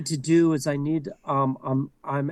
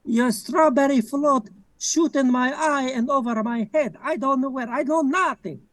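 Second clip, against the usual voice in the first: chancellor character; 6 semitones higher than usual. Acted. Skit chancellor role.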